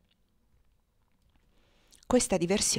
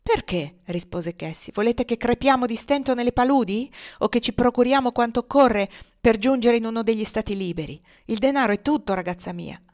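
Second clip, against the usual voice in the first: forceful retort; 3 semitones higher, 4 dB louder than usual. Acted. Cassie argues for the money.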